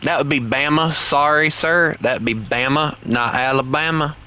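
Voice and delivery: put-on deliberately laid-on Southern accent. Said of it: "I'm putting so much effort into that accent".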